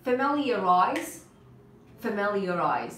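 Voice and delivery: "Familiarize" said slowly and firmly; slow model pronunciation. Shown as a demonstration. Teacher repeats the word for students, slow model pronunciation. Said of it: "try to repeat after me".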